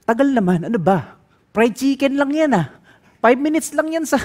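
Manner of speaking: mock the customer's rudeness; impatient complaint. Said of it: "Sabi ko".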